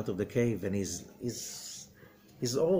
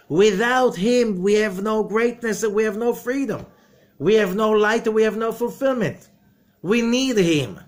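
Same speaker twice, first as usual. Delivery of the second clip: loud, rising sermon voice, pushing hard; booming pulpit delivery; fiery preaching; 9 semitones higher, 8 dB louder than usual. Acted. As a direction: preach it with full force to the room. Preaching at full force.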